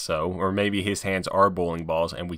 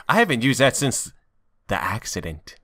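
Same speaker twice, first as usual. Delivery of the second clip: knowing camera aside. Shown as a demonstration. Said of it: "look straight at the camera".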